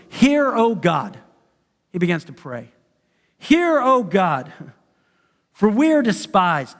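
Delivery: slow, solemn scripture prayer; prayer reading. Acted. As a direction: plead to God slowly and earnestly. Reads Nehemiah's prayer.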